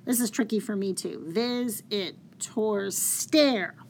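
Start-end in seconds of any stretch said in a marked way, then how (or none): 1.3-3.8 slow, separated syllables ending hard on "stare"; drawn-out meter, "stare" punched; alternating metrical stress. Shown as a demonstration. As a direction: scan it as "VIS it TOR STARE", one beat at a time. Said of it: "that pattern of that stressed and unstressed".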